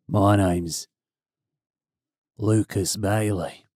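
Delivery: slow, lightly Australian self-introduction; a touch of Australian drawl on the name; mock Australian. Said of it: "it's an Australian name".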